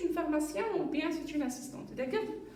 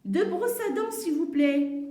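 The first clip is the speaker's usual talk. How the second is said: lightly acted customer, a bit louder; mother to pharmacist; 4 semitones higher, 5 dB louder than usual. Mother ordering two toothbrushes, lightly acted and projected. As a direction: project a polite request for learners. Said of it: "La maman à la pharmacienne".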